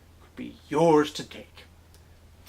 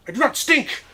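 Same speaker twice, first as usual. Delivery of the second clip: high, loud offended protest; indignant retort; 11 semitones higher, 5 dB louder than usual. Acted. Professor answering the whispered taunt, indignant. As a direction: fire it back, deeply insulted.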